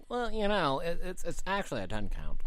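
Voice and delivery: lightly voiced know-it-all nerd; a hint of a correcting wrestling nerd. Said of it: "that's just the nerd voice".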